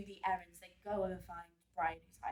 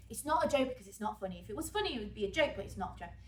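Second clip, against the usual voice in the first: fast, slightly louder frustrated repetition; frustrated rant; 4 dB louder, much faster than usual. Shown as a demonstration. Teacher demonstrates Mark's line as a mild frustrated rant. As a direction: rattle it off as he gets more and more fed up. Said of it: "it's showing that kind of ranting".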